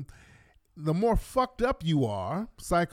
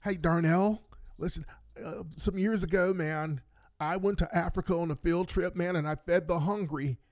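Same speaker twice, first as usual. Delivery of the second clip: softer, confiding dude-bro voice; mock bro coworker; 4 dB quieter than usual. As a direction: sell it like a clueless pal. Coworker pitches lunch to Darnell.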